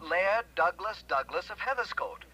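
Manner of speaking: each part of "Laird Douglas Douglas of Heatherscote" slowly spaced out; slow, careful repeat. Acted. Client repeats the name for the investigator, slowly and carefully. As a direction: say the name slowly and distinctly for the listener. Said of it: "Say that slowly, will you?".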